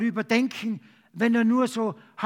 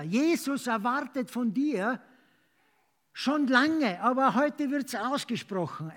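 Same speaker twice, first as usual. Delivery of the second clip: raised, urgent sermon voice; passionate preaching; 3 semitones higher than usual. Acted. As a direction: preach it with conviction. Preacher urging congregation.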